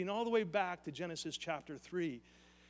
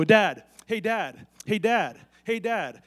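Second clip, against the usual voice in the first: put-on child calling dad; 10 dB louder, slower than usual. Son Luke calling his dad.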